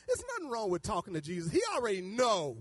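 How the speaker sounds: usual speaking voice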